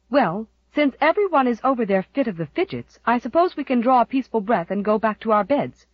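put-on a sharp-tongued old aunt; shrewish aunt. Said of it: "shrewish relief in her tone".

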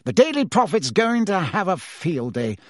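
lightly voiced anxious Fudge; fretting minister. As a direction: complain about looking a fool.

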